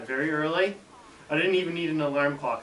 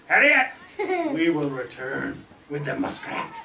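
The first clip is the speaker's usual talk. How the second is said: put-on thick French accent. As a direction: proclaim it in a hammed-up French accent. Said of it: "very thick French accent".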